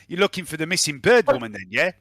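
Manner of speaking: put-on accidental South African accent. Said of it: "I've gone South African now".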